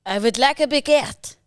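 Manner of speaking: French accent. Shown as a demonstration. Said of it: "see how good your French is".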